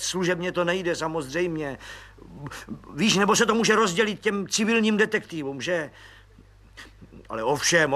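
agitated colonel, voice rising; colonel on the phone. Acted. Colonel pleading with the police officer, eager. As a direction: bargain eagerly, then thank.

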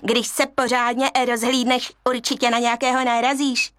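a cunning monkey reassuring the cub; persuasive monkey. Acted. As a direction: talk him into it.

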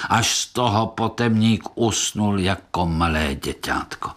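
usual speaking voice

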